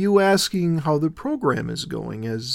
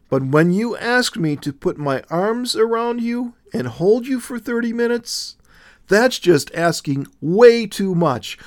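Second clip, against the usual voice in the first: higher and louder, anxious outburst; nervous exclaiming; 6 semitones higher, 4 dB louder than usual. A narrator's reading. Willow protesting to Jesus, nervous and high-pitched. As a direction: pour it out in a rising nervous panic. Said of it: "she exclaimed nervously".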